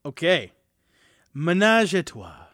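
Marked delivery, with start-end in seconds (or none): 1.3-2.5 sultry, slow, dramatic wine-label read; campy drag queen. Pretend. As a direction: purr it like a glamorous drag queen. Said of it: "Great, great reading".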